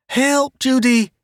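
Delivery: high panicked cry for help; scream. A narrator's reading. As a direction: scream for Judy. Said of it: "Jane screamed".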